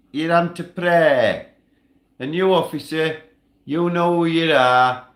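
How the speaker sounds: loud, high, furious tirade at the police; angry rant. Real, not acted. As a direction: yell your defiance at the officers. Ranting at police on livestream.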